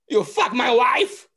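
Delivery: high, slow, loud accusing voice; hammed-up jealous husband; mock accusation. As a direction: demand it of your own pants. Walken's joke punchline acted.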